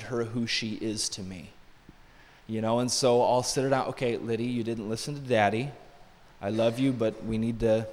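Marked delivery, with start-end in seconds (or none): 3.9-7.9 softer, lower fatherly talk; gentle loving correction. Retold or imitated. Father sits his daughter down to correct her, gently. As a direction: correct a child lovingly, voice kept low. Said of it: "doing it in love".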